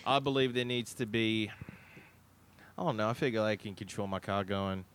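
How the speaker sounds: low, put-on Australian accent; Aussie accent. Host posing as a Western Australian, Aussie accent. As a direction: play a Western Australian local. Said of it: "I'm talking Aussie".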